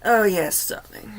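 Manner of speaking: put-on a light, understated British lady accent: "Oh, yes, darling"; lightly imitating an Ab Fab British lady, half-hearted; posh British lady. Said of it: "very dignified British lady".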